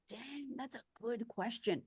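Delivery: slow, thoughtful mock husband voice; slow calm husband. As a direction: ease into it like a patient listener. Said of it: "He was slow and he's calm".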